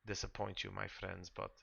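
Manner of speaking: lightly voiced, formal and deliberate sister; resigned game character. Sister warns newcomers about the undying lord, lightly voiced resignation. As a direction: patiently explain a hopeless cause, with pauses.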